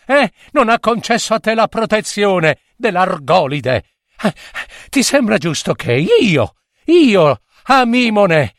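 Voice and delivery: high, stammering plea gasped out while running; frightened girl crying to the god as the satyr closes in; breathless desperate plea. Acted. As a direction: beg the sea god for rescue between gasps. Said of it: "gridò con il fiato che le spezzava il respiro".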